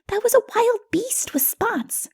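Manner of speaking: put-on high child's voice, matter-of-fact; a little one sure of himself; small child. Child corrects Odu, high and certain. Companion child voice, far timbre.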